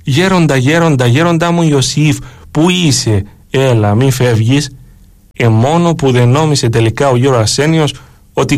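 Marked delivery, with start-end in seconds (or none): 0.0-4.7 desperate calling. Retold or imitated. Monk runs out at night calling for his vanished elder, mild desperate calling. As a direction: call out after someone vanishing, mildly desperate. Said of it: "φωνάζω απεγνωσμένα".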